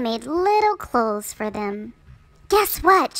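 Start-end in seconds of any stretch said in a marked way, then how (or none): 2.5-3.2 excited secret. A narrator's reading. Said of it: "she cried".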